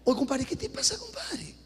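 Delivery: light Peruvian buddy talk, rising on te; a hint of a Peruvian chiding a compadre. Pastor chiding the married man as Peruvians talk, light Peruvian tone. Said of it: "Ahí estoy hablando como peruano".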